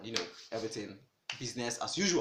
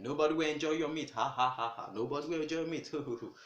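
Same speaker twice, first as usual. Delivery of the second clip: taunting singsong with mock laughter; 3 semitones higher, faster than usual. Birds jeering at the odd chicken, mocking laugh. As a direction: jeer at him and laugh.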